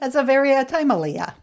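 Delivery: "timely, uh" with a stray "uh" added; extra syllable tacked on. Shown as a demonstration. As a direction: tack a loose "uh" after "timely". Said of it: "throw a third syllable in".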